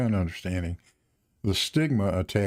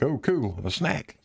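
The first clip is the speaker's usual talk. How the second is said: lightly voiced happy dog, higher; dog's thoughts; 5 semitones higher, slower than usual. Host voices his dog Joker spotting a snack, a touch higher and gleeful. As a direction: give the dog a gleeful little voice, pitched up. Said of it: "Joker would be like".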